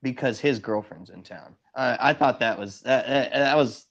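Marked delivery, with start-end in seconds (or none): 1.7-3.9 halting, restarting as words fail; stuttering. Real, not acted. Caller censoring his own words on a livestream, stuttering. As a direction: stumble over false starts, searching for allowable words. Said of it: "I'm stuttering because I can't".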